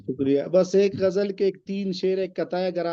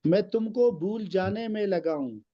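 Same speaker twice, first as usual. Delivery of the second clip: poem recitation. Acted. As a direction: recite the couplet with weight. Recites qita verses.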